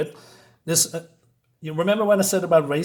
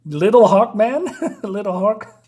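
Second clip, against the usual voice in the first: cracking up; 5 semitones higher, 6 dB louder, slower than usual. Real, not acted. Cracking up at comic panel.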